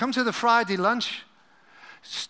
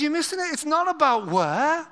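paraphrased Jesus. Acted. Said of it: "the Steve Campbell paraphrase version".

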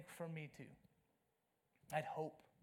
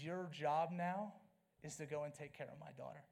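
movie hero's last words; 3 semitones lower, 4 dB quieter than usual. Retold or imitated. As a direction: hand over the charge gently like a dying father. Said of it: "He says".

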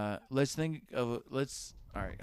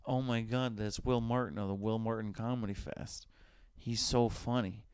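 mock fan gush. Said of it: "let's try that again".

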